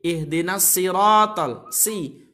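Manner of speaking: "ihdinas siratal" with a light sin for sad; thinned sad. Shown as a demonstration. Teacher imitates most people's mistake, "siratal" with thin s. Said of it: "Jadinya sin".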